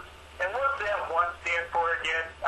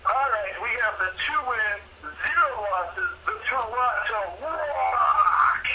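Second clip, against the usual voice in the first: hyped announcer; 5 semitones higher, slower than usual. Acted. Announcing matchup with hype.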